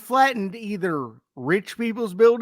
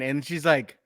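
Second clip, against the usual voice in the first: ordinary delivery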